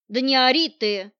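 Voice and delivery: a curt growl silencing a whining man; growled command. Acted. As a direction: snap at him to shut up. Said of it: "рыкнула она".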